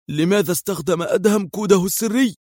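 high, puzzled surprise; surprised question. A narrator's reading. Qadri puzzled by the secret code, asks in surprise. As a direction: ask it as if caught off guard. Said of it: "وفي دهشة تساءل قدري".

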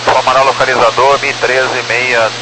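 ordinary delivery

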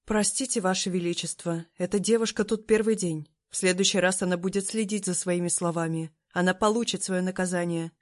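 a touch of stern formality; firm and dutiful, no nonsense; strict voice. Acted. Senior maid apologising to the emperor, mildly strict. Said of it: "строгим голосом".

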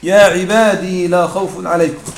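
يا عبادي said slowly with the final ya sounded; slow recitation keeping the ya in يا عبادي; ya kept, slow. Shown as a demonstration. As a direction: read يا عبادي لا خوف عليكم slowly, keeping the ya. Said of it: "أثبت الياء".

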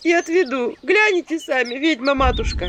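high, loud village woman's sigh; loud sighing plea; sighing promise. A narrator's reading. Visitor continues promising.

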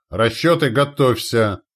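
high, loud battle commands; barked orders. A narrator's reading. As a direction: shout to every gun crew. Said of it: "рявкнул старший орудийной дружины".

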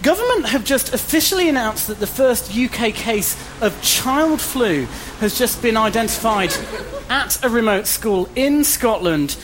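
slow, grave live report; solemn on-the-spot news voice; field reporter. Acted.

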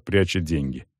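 ordinary delivery, nothing marked

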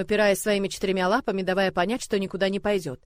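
plain reading voice

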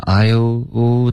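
I'LL ending in a rounded "oo" instead of l; imitated mispronunciation. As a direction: copy the student's I'LL with the lips moving at the end. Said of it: "听到你动嘴唇了". (模仿错读：I'll 结尾动嘴唇)

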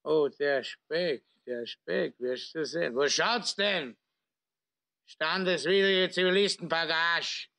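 put-on slurring drunk officer; town drunk. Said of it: "liegt betrunken im Coupé lallend".

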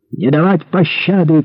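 shouted command. A narrator's reading. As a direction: call the order across a battlefield. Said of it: "крикнул по-французски".

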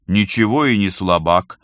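slow, sulky grumble; grumbling. Acted. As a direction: mutter it defensively. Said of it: "ворчал Герман".

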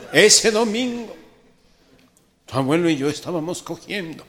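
a hint of a solemn old lady confessing; old grandma. Grandmother solemnly confesses to her grandson.

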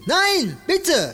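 frightened high cry; pleading. Acted. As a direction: beg in panic. Begging before the injection.

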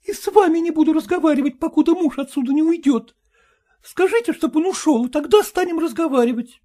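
high, fast cross refusal; voiced daughter, defiant; stubborn wife. A narrator's reading. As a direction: rattle off her terms.

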